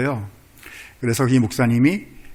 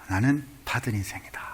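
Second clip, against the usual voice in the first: whispered resolve; 2 semitones lower, 7 dB quieter than usual. Acted. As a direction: whisper it like a private vow. New resolution stated to self.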